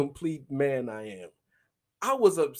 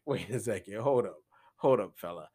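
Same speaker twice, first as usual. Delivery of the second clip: mock man's protest; 8 semitones lower, faster than usual. Voicing the man's objection.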